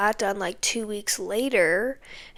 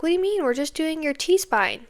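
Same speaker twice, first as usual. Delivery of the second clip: puzzled technician; 6 semitones higher than usual. Retold or imitated. Voicing the puzzled MRI technician.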